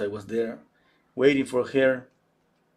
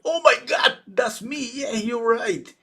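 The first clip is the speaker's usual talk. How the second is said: much higher and louder gasp of delight; amazed surprise; 11 semitones higher, 6 dB louder than usual. Retold or imitated. Daughter spots herself in the painting, amazed. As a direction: she can't believe it's her.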